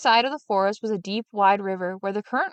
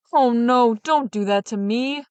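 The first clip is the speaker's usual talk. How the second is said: loud begging cry that slows and eases; the trapped sexton begs for his life; desperate shout; 3 semitones higher, 5 dB louder, slower than usual. Acted. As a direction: plead loudly, then drop back. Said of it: "the sexton shouted".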